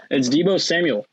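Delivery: talking through a mouthful of chips; words around crunchy chips; mouth full of chips. Real, not acted. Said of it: "Dude, I just put chips in my mouth".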